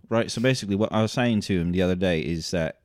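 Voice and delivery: quick mock Cockney chat; Cockney accent. Host recounting a chat with the director, Cockney accent. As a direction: rattle it off in a put-on Cockney accent. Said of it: "you can do your Cockney accent".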